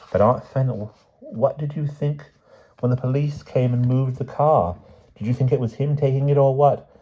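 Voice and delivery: put-on high, urgent young relative's voice; high, puzzled niece; questioning niece. A narrator's reading. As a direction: press an old aunt for answers.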